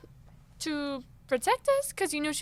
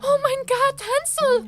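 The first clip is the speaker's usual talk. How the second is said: higher, much louder horrified cry; shocked cry; 12 semitones higher, 11 dB louder, slower than usual. Acted. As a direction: gasp it out in horror. Gretel finds brother tied.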